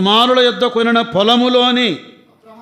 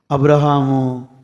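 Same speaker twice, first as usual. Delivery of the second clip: a lightly lowered, reverent God voice; 7 semitones lower than usual. Retold or imitated. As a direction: speak as God, grave and low. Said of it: "అన్నాడండి దేవుడు".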